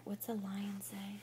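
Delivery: soft whispered question; whispering. Real, not acted. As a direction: whisper it gently. Quiet question to toddler.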